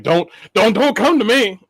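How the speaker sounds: rising, squeaky don't come to me; playful high-pitched plea; mock protest. Mock defensive protest, laughing.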